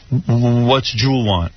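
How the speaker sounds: mock stutter, stumbling into the question; stuttering man. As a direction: imitate a nervous stammer on the first word. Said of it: "and he goes".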